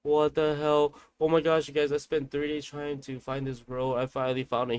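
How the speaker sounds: loud mock cry of joy; overjoyed outburst. Uncle shouting to the family on reaching the road, mock joyful yell. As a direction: act out his relieved shout to the family. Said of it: "He was like".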